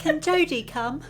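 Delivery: high mock Cockney child voice; a hammed-up Cockney kid asking; bad Cockney child; bad Cockney accent. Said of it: "really shit Cockney accents".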